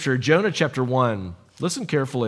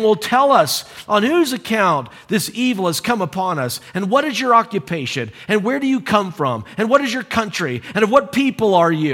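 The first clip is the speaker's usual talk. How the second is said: higher, pressing volley of questions; loud urgent questioning; 5 semitones higher than usual. Acted. Frightened sailors interrogating Jonah in the storm, urgent and raised. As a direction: demand answers, piling question on question. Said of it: "this is loud".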